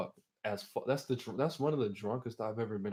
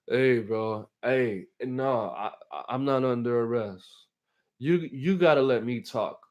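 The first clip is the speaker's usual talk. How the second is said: acting drunk; 5 dB louder than usual. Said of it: "I was a drunk little child".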